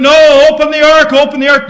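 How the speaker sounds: loud cry from outside the door; pleading call. Retold or imitated. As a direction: call out to be let in. People calling out at door.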